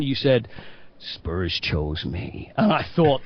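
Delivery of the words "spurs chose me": tender. Retold or imitated. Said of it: "That's beautiful".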